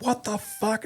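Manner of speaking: incredulous, held-back high exclamation; retold disbelief. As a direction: replay being appalled at the sight. Finding recruit with a knife.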